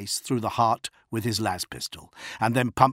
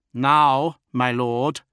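firm, louder urging; insistent; 4 semitones higher, 6 dB louder, much slower than usual. A narrator's reading. Officer pressing his lord to leave the bridge, insistent. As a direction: insist with a punch on the first word. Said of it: "he insisted".

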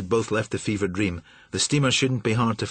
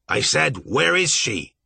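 demanding; 4 semitones higher, 3 dB louder, slower than usual. Acted. Marsh repeats demand angrily.

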